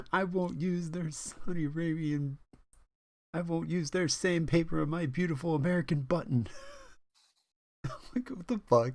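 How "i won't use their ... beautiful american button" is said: imitating American Dad. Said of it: "It's like the American Dad thing".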